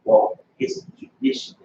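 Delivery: high mock voice of the sister; sister's excuse, mimicked high; mimicking sister. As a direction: lift the voice to mimic her excuse. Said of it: "looked me dead in my face and said".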